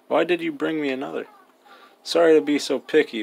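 hammed-up fussy customer; mock picky Anka. Mocking Anka's pickiness.

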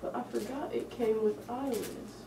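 muffled inside mascot head; speaking inside fursuit head; talking through costume head. Real, not acted. Seen 4: Speaker wears full red panda costume head over face throughout.

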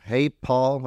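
mild retold call across a room; mock yell to get attention; imitated yell. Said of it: "she yells across the room".

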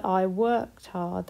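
slowed down, each word clear; slow modelled past tense. Shown as a demonstration. Teacher modelling worked slowly for the class. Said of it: "That one works as well".

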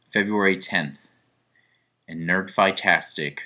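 low, slow, solemn delivery; grave announcement. Pretend. Mock-grave announcement before the confession.

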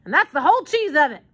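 mild alarm, putting a foot down; alarmed refusal. A narrator's reading. Armand refusing to take the children, mildly alarmed. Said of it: "cried Armand in alarm".

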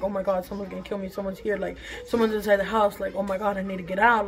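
quick, quiet panic; panicked thoughts. Retold or imitated. Alone at home, fearing an intruder, quiet panic. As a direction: rush the fearful thoughts under breath.

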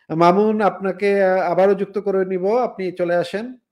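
loud call over a bad line; to someone hard of hearing. Real, not acted. Calling a dropped caller.

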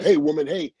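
lightly voiced movie tough guy calling out; a brief impression, calling to a woman; Mister T. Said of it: "Give me a little bit of Mister T".

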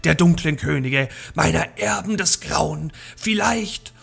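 lightly voiced witch. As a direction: gloat over the captured hero.

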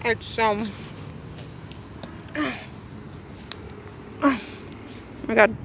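talking with food in mouth; mouth full. Real, not acted. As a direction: speak through a mouthful. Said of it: "I'm sorry to be talking with food in my mouth".

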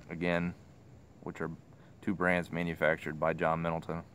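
talking around pipe stem; pipe in mouth. Real, not acted. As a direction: lips clenched on pipe. Seen 2: Pipe stem stays at mouth corner while he talks.

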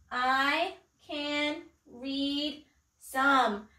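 very slow, each word set apart; word-by-word reading. Shown as a demonstration. Teacher leading children in reading sight words, slow and measured. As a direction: read it out one word at a time.

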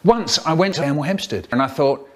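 choppy sentence-mixed clips; words cut and stitched from different takes; spliced words. Acted. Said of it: "faster than science sentence mixing".

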